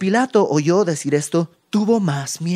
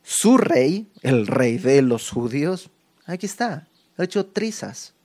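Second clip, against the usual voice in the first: mocking. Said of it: "está sumándose a la burla".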